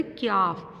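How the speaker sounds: slow क्याफ with a clear ky glide before the long a; careful pronunciation. Shown as a demonstration. Teacher correcting the letter name क्याफ for pupils. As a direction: say क्याफ slowly, not कॉफ. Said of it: "इसको कॉफ नहीं पढ़ेंगे".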